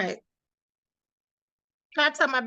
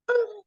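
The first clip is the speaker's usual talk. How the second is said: high-pitched reenacted "ooh"; imitated high exclamation; retold ooh; 12 semitones higher than usual. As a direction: let out a high little ooh. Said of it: "I went".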